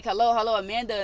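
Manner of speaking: loud mock phone hello; retold calling out. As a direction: call out to a friend on a silent line. Calling to friend on dead line.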